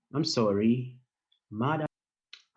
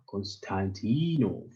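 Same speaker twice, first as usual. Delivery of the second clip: slow demo name; slower than usual. Shown as a demonstration.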